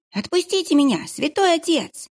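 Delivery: put-on high, squealing boy's voice held tight; squealing kitchen boy. Kitchen boy begging the monk to let go, squealing. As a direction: squeal it like a frightened little boy. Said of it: "заверещал мальчишка".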